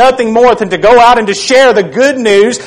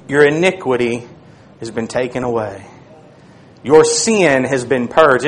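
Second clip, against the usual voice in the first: hushed reassurance; 9 semitones lower, 7 dB quieter than usual. Acted. Seraph comforting Isaiah in a soft, low hush. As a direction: lay the words down gently like a blessing.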